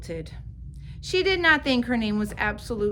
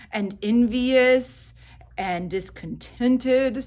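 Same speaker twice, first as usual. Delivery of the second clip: slow father voice; 5 dB louder, slower than usual. Acted. Father consoles daughter.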